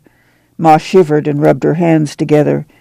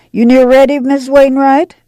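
calling out; 9 semitones higher than usual. A narrator's reading. Ma calls out to Miss Wainwright across the boxcar. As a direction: call across the car. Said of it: "she called".

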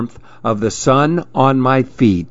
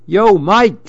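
lizard calling out; 8 semitones higher than usual. A narrator's reading. Lizard calls to the monkey.

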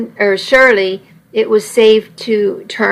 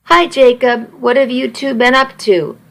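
flirty sultry voice; 3 semitones higher than usual. Acted. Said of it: "It was back, that indefinable, flirty, sexy voice".

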